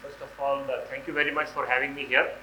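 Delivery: hoarse, stuffy voice from a cold. Real, not acted. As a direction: speak through a heavy cold. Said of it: "I'm sounding a little odd".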